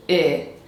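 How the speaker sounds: "I" as a lax ih; isolated, relaxed ih sound; short I vowel. Shown as a demonstration. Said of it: "take the two sounds".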